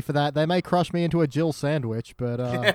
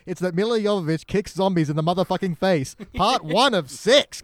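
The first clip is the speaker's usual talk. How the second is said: slow emphatic punchline. Real, not acted. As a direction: hammer home the tagline again. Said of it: "if you need to know one good thing".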